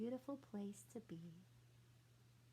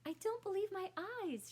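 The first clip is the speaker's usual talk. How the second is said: high, loud cry of disbelief; cried out in amazement; 8 semitones higher, 5 dB louder than usual. A narrator's reading. Miss Rumphius cries out atop the hill, amazed. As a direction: gasp it out as if you can't trust your eyes. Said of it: "she cried when she got to the top".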